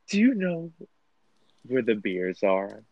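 imitating a tipsy friend as a child, slowing right down; little child. Tipsy friend asking where drinks are, childlike. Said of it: "sounded like a little child".

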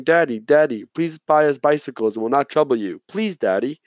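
lightly voiced begging kids; pleading children. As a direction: plead like little boys, mildly hammed-up. Father quotes his sons' pleading.

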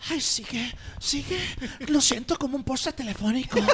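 lightly hammed-up lover in Spain Spanish; Spanish porn dubbing. Shown as a demonstration. Guest demonstrating porn dubbing, mock moaning in Spanish accent. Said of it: "regularmente acento español".

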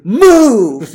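angry shout. Retold or imitated. Truck driver to man in parked car, retold angry shout. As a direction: yell it like a driver banging on the windshield.

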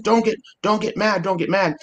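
high-pitched mock of a scolding clerk. Clerk's words mocked again.

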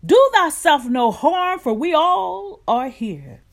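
crying out, high and loud. A narrator's reading. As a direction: call out to stop him. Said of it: "Paul cried with a loud voice".

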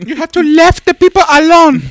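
put-on high, loud caricatured Hispanic accent; mock Hispanic accent. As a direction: squawk it in a hammed-up Hispanic accent. Joking put-on Hispanic accent bit.

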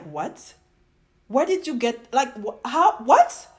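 high, sputtering bafflement; incredulous. Retold or imitated. Vlogger answering an ignorant question, incredulous.

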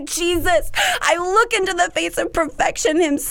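high, heartfelt plea to Jesus; emotional. Real, not acted. Praying to Jesus while getting emotional, emotional and earnest. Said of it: "I'm getting emotional".

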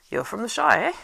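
jolly landlord caught off guard; surprised innkeeper. A narrator's reading. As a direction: perk up at the news.

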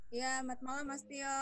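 distant, off-mic voice; speaking too far from the microphone. Real, not acted. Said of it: "boleh dideketin mic-nya". (jauh dari mikrofon)

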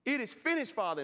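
high, loud crying out; loud cry from the cross. Acted. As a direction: cry it out with your last breath. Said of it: "Jesus cried on the cross".

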